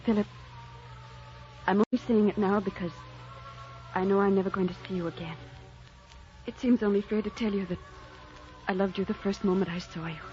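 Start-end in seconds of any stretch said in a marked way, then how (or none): 1.7-10.2 tender confession. Acted. Tearful farewell confession of love.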